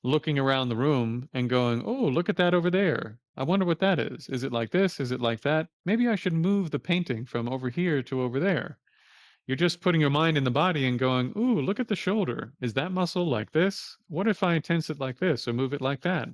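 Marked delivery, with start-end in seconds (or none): 1.9-8.8 higher, lightly nosy musing; a hint of a fussy tourist wondering aloud; mock curious inner voice. Voicing a wandering curious mind. 11.4-16.3 higher "Ooh", lightly nosy questions; a touch of a curious tinkerer; mock fascinated inner voice. Voicing mind fiddling with body.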